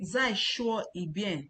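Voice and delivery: slow, carefully spaced Zai shuo yi bian; a teacher slowly modelling Zai shuo yi bian; slow demo. Shown as a demonstration. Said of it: "Then when you say".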